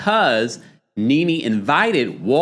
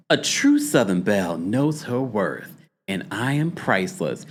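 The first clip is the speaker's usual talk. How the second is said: Phaedra's voice; 2 semitones lower, 3 dB quieter than usual. Shown as a demonstration. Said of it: "her delivery of her tagline".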